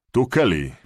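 loud, high, out of breath; loud and breathless. A narrator's reading. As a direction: bark your name into the phone, winded. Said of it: "lecz głośny i zdyszany".

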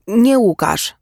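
high, loud outburst on NIE; girl bursts out correcting her father, loud and high; exclaimed. A narrator's reading. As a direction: cry out the denial. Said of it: "wykrzyknęła dziewczyna".

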